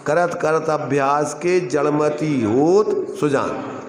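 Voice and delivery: slow recital, होत stretched upward, pause, सुजान falling; verse in other sense. Shown as a demonstration. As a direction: draw out the line, break before सुजान. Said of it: "और एक में". (धीमा दोहा, होत के बाद विराम)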